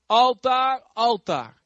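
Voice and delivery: loud prophetic call to the altar. Acted. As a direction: proclaim it like a prophet. Profeet roept tegen het altaar. (luid roepend naar het altaar)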